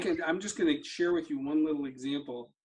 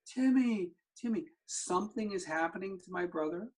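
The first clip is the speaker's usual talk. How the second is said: retold panicked screaming; 3 semitones higher than usual. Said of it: "I'm screaming".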